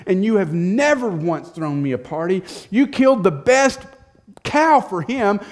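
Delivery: loud, high, building bitter complaint; he's had enough and lets it all out; bitter outburst. Acted. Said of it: "older son won't hear it".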